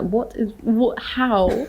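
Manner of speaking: high, laughing confusion; flustered laughing quote. Retold or imitated. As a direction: splutter it out through laughter. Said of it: "my mum literally was like".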